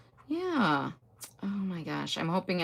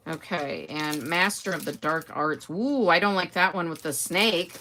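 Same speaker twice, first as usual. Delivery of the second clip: ordinary talk, nothing marked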